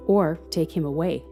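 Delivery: usual speaking voice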